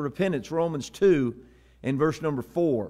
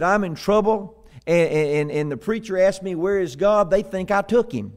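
lightly acted higher, louder boy; worried little boy; 4 semitones higher, 4 dB louder than usual. Boy telling his brother he's in trouble, mock worried. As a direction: stammer slightly, building to the punchline. Scared boy voiced at joke's punchline.

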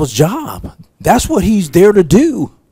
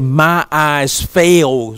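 quiet lament; 3 semitones lower, 5 dB quieter, much slower than usual. Retold or imitated. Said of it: "He said".

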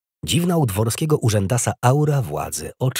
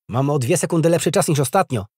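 put-on higher, louder proud boy; boyish boasting; 7 semitones higher, 5 dB louder than usual. A narrator's reading. Boy bragging about his improved time, proud and higher-pitched. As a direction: show off your result like a lively boy. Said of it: "pochwalił się chłopiec".

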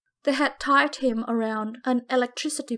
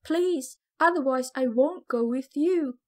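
begging; 2 semitones higher than usual. Acted. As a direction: beg him. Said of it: "I begged".

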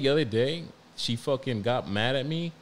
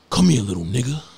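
sharp mock order to a kid; firm dad command; 3 semitones higher, 8 dB louder, faster than usual. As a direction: imitate a dad laying down the law, loud. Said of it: "get really firm, like, really firm".

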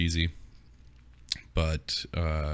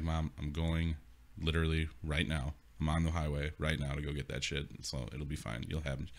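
calming son; 3 semitones lower, 8 dB quieter than usual. Retold or imitated. Calming mom on the phone.

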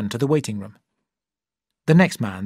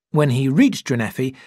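ordinary delivery

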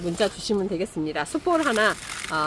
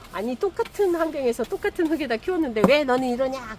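higher-pitched complaining scold; mock temper; 5 semitones higher than usual. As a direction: mildly nag a plant like a disappointing child. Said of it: "막 성질 부릴 때가 있거든요". (성질부리듯 높게 따지는 말투)

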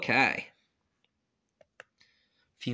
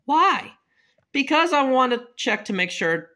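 put-on child voice; 4 semitones higher than usual. Kid asks, high child voice.

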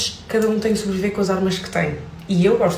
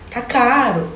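"Tá caro." pitched higher, a failed carioca try; bad Brazilian accent; 6 semitones higher, much slower than usual. Shown as a demonstration. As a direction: show how the accent slips. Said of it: "vai ficar assim".

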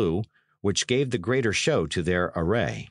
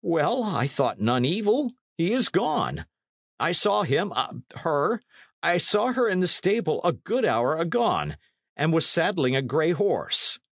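high-pitched, anxious explanation; flustered landlord; 9 semitones higher than usual. A narrator's reading. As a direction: explain yourself to an angry lord. Landlord explains himself to the knight.

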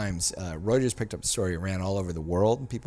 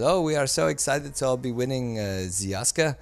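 imitating German actress; 3 semitones higher, 3 dB louder than usual. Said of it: "She says".

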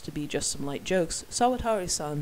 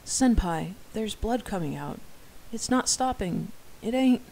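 panicked; 5 semitones higher than usual. Acted. Junior panics over bleeding friend.

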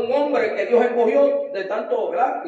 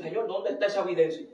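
tearful plea; 5 semitones lower, 11 dB quieter than usual. Retold or imitated. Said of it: "uno se pone a llorar y uno dice".

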